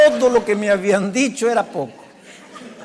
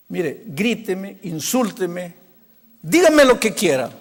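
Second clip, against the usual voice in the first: pleading challenge; 2 semitones lower, slower than usual. Retold or imitated. Boy invites pastor to scold him, building defiant plea. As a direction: imitate a boy daring you, rising on each demand.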